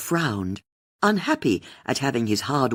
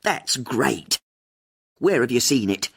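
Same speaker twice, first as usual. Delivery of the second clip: upbeat radio voice. A narrator's reading. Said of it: "turned on her upbeat radio personality".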